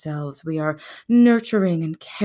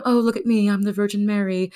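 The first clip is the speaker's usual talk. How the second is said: lightly voiced, higher goody-goody; mock virtuous woman; 4 semitones higher, faster than usual. Woman categorised as virtuous, mock saintly. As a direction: show off your purity in a higher voice.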